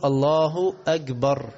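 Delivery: "الله أكبر" with the kaf turned into jim, drawn out; wrong pronunciation. Shown as a demonstration. Teacher shows the wrong way, a slow drawn-out mispronounced takbir. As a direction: say "أكبر" as "أجبر", slowly. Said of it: "حول الكاف لإيه؟".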